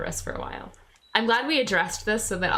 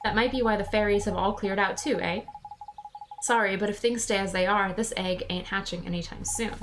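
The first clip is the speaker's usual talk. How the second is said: lightly voiced regional Drippy accent; chummy sidekick in his non-standard English; a hint of a folksy accent; Drippy's accent. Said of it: "writing in that accent".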